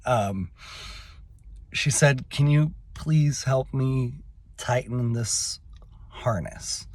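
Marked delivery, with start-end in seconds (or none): 2.3-6.9 slow, halting, humble plea, dropping away at the end; humble request. Retold or imitated. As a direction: gently imitate someone humbly asking for help. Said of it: "very, very humbly".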